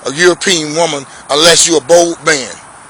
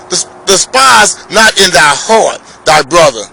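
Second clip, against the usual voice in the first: preaching shout. Acted. Preacher repeats verse, shouting.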